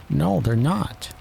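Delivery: high-pitched royal attendant; White Rabbit. A narrator's reading. White Rabbit addressing the king, high voice. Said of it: "said the White Rabbit".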